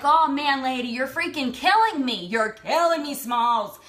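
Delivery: playful, emphatic groaning complaint; mock exasperation. Woman silently begging tearful lady to stop, mock exasperated. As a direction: protest in hammed-up exasperation.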